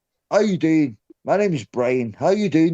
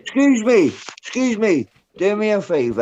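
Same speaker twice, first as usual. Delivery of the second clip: offended interruption; indignant excuse me; 4 semitones higher than usual. Real, not acted. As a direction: bristle at the insult, pitched up. Indignant at insult.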